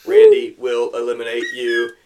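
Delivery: high, loud cheering crowd voice; cheering fans. Retold or imitated. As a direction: yell it like a wild fan in the stands. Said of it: "You can just imagine the fans".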